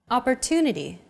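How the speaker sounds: Opportunity, stressed and lengthened on the third syllable. Shown as a demonstration. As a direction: lean on "tu" in Opportunity. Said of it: "pronounced longer than all other".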